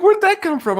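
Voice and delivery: high, surprised retold reaction; mock surprise. Guest retelling reading an insulting comment, high mock surprise. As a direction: act baffled by the insult, pitched high. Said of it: "I'm like".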